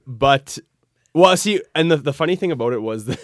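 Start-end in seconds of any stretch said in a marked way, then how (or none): 2.0-3.2 words broken by laughter; laughing. Real, not acted. Guest laughing while explaining the contest. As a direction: laugh through the line.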